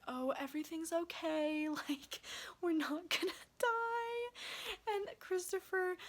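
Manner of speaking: relieved laughing. Retold or imitated. Relieved call to police.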